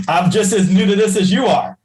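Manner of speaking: laughing it off, baffled; a bewildered laugh through the words. Retold or imitated. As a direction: tell a friend you're as lost as she is, laughing. Laughing, baffled reply to friend.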